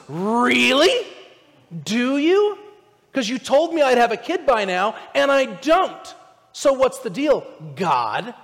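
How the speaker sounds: Abraham yelling back at God; indignant challenge to God. Acted. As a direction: call God out, half exasperated.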